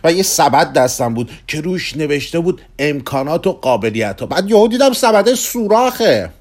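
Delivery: a middle-aged man begging for romance; Kugelmass, restless, pleading. Acted.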